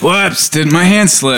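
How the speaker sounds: retold coy coworker. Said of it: "She's like".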